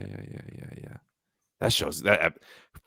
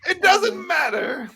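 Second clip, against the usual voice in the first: dismissive shrug; 3 dB louder, slower than usual. Shown as a demonstration. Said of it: "Sometimes I do gotta tell myself that".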